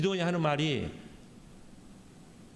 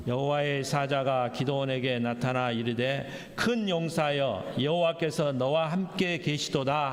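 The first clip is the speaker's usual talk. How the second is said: slow, measured Bible reading; scripture reading; slower than usual. Acted. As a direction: read the verse out slowly, drawing out the phrases. Reads scripture aloud with congregation.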